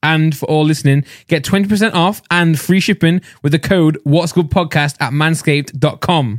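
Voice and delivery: promo code read, slowing on the web address. Acted. Host giving listeners the discount code, clear ad read. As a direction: spell out the deal for listeners.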